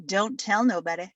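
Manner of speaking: a hint of a conspiratorial Mary; Virgin Mary. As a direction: hush them, then confide a secret. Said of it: "This is my impression of the Virgin Mary".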